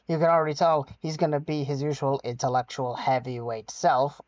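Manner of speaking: heavy sarcasm, slightly quick; mock praise, dripping irony; sarcastic. Real, not acted. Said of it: "I say with heavy sarcasm".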